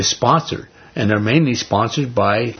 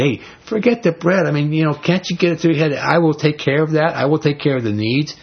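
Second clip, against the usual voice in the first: higher pitched, pressing him to get it; exasperated Jesus; 5 semitones higher than usual. Retold or imitated. Preacher voices exasperated Jesus.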